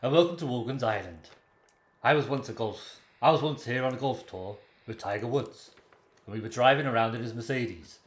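Irish impression slipping into Welsh; lightly lilting, Welsh-sounding broadcaster; Terry Wogan. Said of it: "I've got Welsh, haven't I?".

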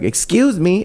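high-pitched imitation of an affronted woman; high, put-on indignant voice; indignant old lady. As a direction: squeak it out like an offended old lady. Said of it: "and she's like".

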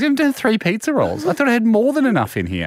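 high-pitched rattled imitation; flustered. Canteen worker telling helper rolls are missing, flustered. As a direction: act out a worker's mounting fluster. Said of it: "She's a bit flustered".

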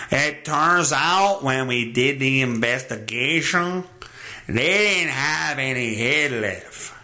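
deadpan mock Mexican official; mock Mexican accent. Official reporting the investigation, mock Mexican accent. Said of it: "I don't know who, what accent that is. It may be Mexican".

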